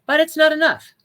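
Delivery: not enough, with not hit high and loud; a sudden emphatic not enough; stress on not. Real, not acted. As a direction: lean hard on not. Emphatic sermon point.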